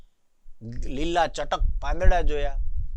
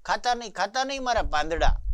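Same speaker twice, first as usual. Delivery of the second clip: quick, higher-pitched plea; mild pleading cry; 6 semitones higher, 3 dB quieter, much faster than usual. A narrator's reading. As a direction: lightly act the tree begging, words hurried. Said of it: "cried the bubble tree".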